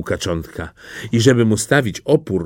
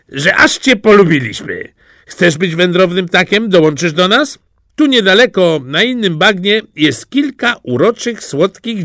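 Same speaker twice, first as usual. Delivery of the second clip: put-on high, cocky young ganders teasing; brash young ganders chatting up a friend; cheeky gander voice, pitched up high; ganders talking; 6 semitones higher, 3 dB louder than usual. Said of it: "powiedziały".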